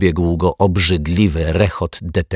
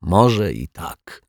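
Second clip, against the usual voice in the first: sigh; much slower than usual. Acted. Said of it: "westchnął detektyw Pozytywka".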